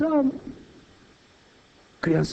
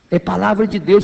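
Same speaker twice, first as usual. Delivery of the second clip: usual speaking voice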